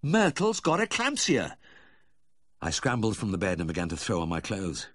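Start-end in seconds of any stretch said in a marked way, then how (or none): 0.0-1.6 high, slow exclamation of alarm; aghast, pitched high; horrified realisation. Acted. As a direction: cry it out as the truth dawns. Vet's horrified realisation on waking.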